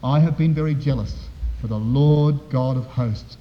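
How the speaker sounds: understated, downcast reciting; prepared statement. Acted. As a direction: recite it like a rehearsed defence, eyes down. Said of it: "almost like a prepared statement".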